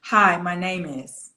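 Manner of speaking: "Hi, my name is" slow and level, closed with a full stop after "is"; period after phrase. Shown as a demonstration. Coach shows student where to break, flat phrase with a period. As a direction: let "is" fall as if the sentence ends there. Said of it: "put a period there".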